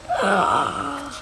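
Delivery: high, drawn-out breathy "ah"; mime's exaggerated gasp; acted gasp. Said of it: "And he's like".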